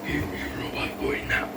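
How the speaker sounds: deep, slow belching robot; belched robot voice. Retold or imitated. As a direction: belch the words out like a monster robot. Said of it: "sort of belched his voice".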